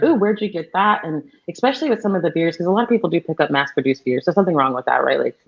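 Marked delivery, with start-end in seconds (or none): 0.0-1.0 higher-pitched, eager question; imitating an excited beer fan; excited curiosity. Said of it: "people get excited".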